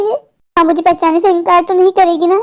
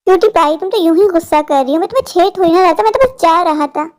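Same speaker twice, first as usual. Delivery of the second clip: sly stranger; 2 semitones lower than usual. Acted. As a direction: sweet-talk the child like a creep. Stranger backs off.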